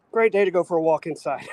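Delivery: chuckling through the words; amused, laughing as he jokes. Real, not acted. Joke about walking indoors.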